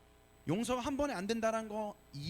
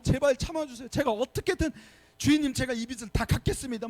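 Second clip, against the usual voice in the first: higher, louder begging for mercy; desperate pleading; 6 semitones higher, 6 dB louder than usual. Retold or imitated. Servant begging his master for time, high and loud. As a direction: beg the master, voice strained high. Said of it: "엎드려 막 간절히 비는 거예요".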